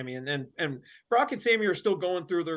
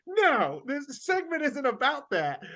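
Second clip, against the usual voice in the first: raised, higher mock-boss voice; imitating an emphatic no; retold firm refusal; 6 semitones higher than usual. Retold boss shuts down request.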